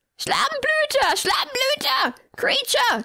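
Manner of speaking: shrill, very high shrieking screech. An old lady's voice rings through the whole house, shrieking. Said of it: "kreischte sie".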